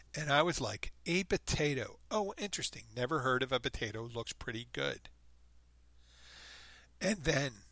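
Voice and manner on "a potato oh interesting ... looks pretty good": clowning wonder. Retold or imitated. Clowning at the dinner table with mock amazement. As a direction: act as if a potato is brand new. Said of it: "they didn't see I was clowning".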